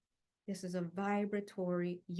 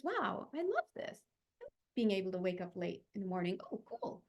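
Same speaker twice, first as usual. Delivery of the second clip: delighted affirming; 2 semitones lower than usual. Pretend. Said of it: "You affirm the, those energies".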